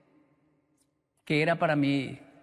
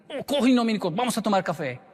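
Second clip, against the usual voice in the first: high, quick friendly greeting; teacher inviting; 4 semitones higher than usual. Retold or imitated. Old teacher meeting his ex-student at the station, quick friendly call. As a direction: rattle it off like an eager friend. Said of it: "parecía un latino".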